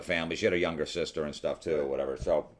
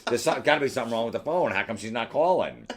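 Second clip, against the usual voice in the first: higher-pitched exasperated retelling; frustrated; 4 semitones higher than usual. Retold or imitated. Friend recounting waiting by the phone, frustrated. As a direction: play up the indignant disbelief.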